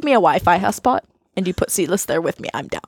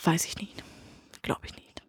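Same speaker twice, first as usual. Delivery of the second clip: whisper; 12 dB quieter than usual. Real, not acted. Unsure whisper about brother.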